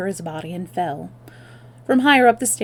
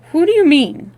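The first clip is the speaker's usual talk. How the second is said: high loud alarm; sharp startled question; shocked; 9 semitones higher, 9 dB louder than usual. Acted. German shocked.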